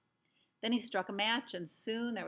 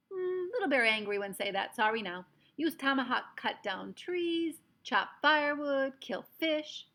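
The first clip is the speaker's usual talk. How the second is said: loud, higher, clipped brave's demands; a proud chief listing his orders; commanding little warrior voice; Little Bear voice; 6 semitones higher, 7 dB louder, slower than usual. A narrator's reading. Little Bear explains tomahawk.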